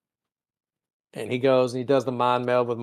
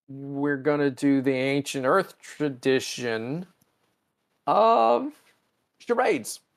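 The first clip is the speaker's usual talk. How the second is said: mock grand announcement; 3 semitones higher, slower than usual. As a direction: pitch climbing high on "of charades". Spock voiced announcing charades.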